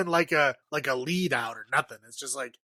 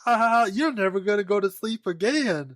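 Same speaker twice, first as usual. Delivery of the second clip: mock giggling parents; 5 semitones higher than usual. Parents laugh at their sleepy son, hammed-up giggles. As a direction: cackle at the kid like crazed parents. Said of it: "they're all giggling and laughing".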